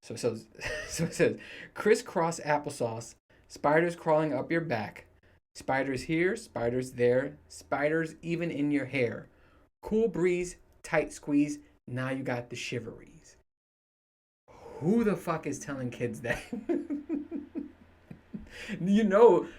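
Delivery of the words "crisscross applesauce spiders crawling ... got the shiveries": nursery rhyme reading. Shown as a demonstration. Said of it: "I'm gonna read it the way I think it's read".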